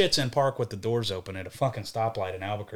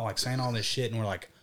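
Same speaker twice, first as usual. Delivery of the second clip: plain reading voice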